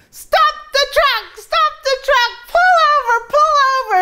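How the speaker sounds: sudden, very high put-on screaming. Retelling a car ride with Eric, she reenacts her own screaming. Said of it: "I started screaming".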